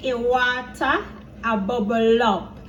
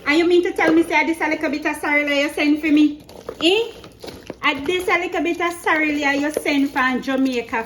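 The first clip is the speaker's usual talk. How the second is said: mock scolding; 3 semitones higher than usual. Vlogger retelling her message to mommy about the sorrel, mock scolding. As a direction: retell your complaint as a hammed-up scolding.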